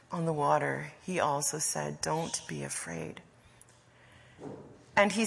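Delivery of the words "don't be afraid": low, soft reassurance; calm them quietly, low and gentle; compassionate. Acted. Jesus walking on the water to the boat, reassuring softly. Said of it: "God's voice of compassion".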